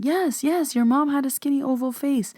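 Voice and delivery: high, eager retold outburst; blurting yes out high and fast; excited yell. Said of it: "Katie starts yelling".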